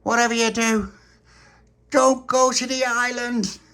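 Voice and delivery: put-on warning the kid not to go to the island; stern warning. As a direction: warn him ominously. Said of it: "And he went".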